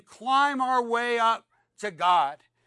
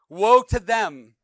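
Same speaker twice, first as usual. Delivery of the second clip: prophetic denunciation; 5 dB louder than usual. Acted. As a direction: thunder the prophet's curses at the crowd. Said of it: "He says".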